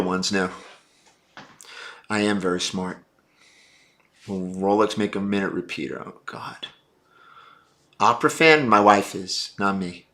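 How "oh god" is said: exasperated whisper. Real, not acted. Reacting to a minute repeater question.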